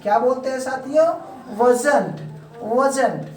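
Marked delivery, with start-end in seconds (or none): 1.6-3.3 "wasn't" run together as wuh-zunt; British-style contraction. Shown as a demonstration. Teacher models British contraction for students, "wasn't" as wuh-zunt. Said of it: "British style में बोलते हैं".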